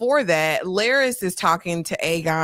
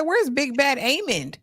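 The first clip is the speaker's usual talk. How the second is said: mock taunt; 6 semitones higher than usual. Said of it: "I said".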